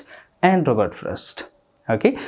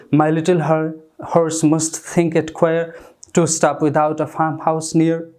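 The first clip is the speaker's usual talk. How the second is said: slow, measured poetry reading; poem recitation; 2 semitones higher, much slower than usual. Acted. Teacher reading Frost to the class, slow poem recitation. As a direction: read each line slowly, savouring it.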